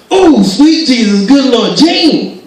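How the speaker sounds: high, loud, stretched-out exclamation; overjoyed dad. Retold or imitated. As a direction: imitate a father amazed by his gift. Dad thrilled opening his present.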